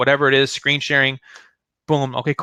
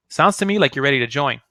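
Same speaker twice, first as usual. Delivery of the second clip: "Sounds to me like you're ready to join" as a statement, falling on "join"; assured close, "join" landing downward; statement tonality. Shown as a demonstration. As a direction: state "ready to join" as a fact, not asking. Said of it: "I think I did a pretty good job there".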